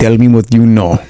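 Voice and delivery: mock interrogator. Mock interrogation by Russian spies.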